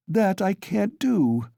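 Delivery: high, slow, offended cry; a sister refusing, stung; mildly hurt retort. A narrator's reading. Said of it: "the girl cried, offended".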